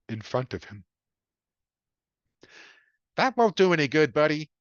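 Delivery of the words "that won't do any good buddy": kindly. A narrator's reading. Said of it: "said kindly".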